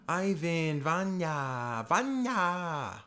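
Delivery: loud, high, drawn-out call. Acted. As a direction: shout the names across a crowd. Character calls out for children.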